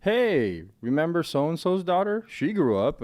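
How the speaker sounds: imitating a mom. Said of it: "they'll just be like".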